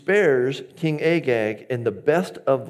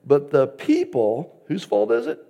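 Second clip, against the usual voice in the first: mock blame-shifting; 5 semitones higher, 4 dB louder than usual. Shown as a demonstration. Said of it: "You guys would never shift blame".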